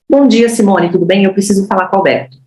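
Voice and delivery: bright warm greeting, then firm request; friendly, assertive call. Shown as a demonstration. Sales trainer demos the right way to ask for the boss. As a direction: greet warmly, then state it with confidence. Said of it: "Essa é a forma certa da gente prospectar".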